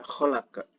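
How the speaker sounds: "kholak" with a bounced final q; "kholak" ending in a small uh puff; qalqalah. Shown as a demonstration. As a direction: release the end of "kholak" with a short echo. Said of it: "Jadi dibacanya".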